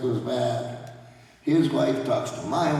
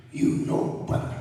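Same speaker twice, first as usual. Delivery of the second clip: Jimmy Snuka. Retold or imitated. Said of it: "Jimmy Snuka, like".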